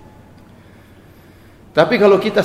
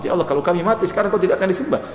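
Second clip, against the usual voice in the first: humbly but urgently beg God; imitating an earnest supplication; retold fervent prayer; 4 semitones higher, faster than usual. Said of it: "Saking begitu semangatnya Nabi".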